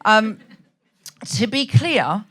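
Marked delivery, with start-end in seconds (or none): 1.3-2.2 hint of a Slovenian-accented cadence; lightly imitated Slovenian accent, carefully placed; Melania Trump. Quoting the first lady's speech, hint of Slovenian accent. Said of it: "talk in Melania Trump's cadence".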